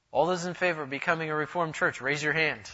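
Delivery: calling a vote. Acted. Official asking the townspeople to vote, calling out. Acted town vote called in square.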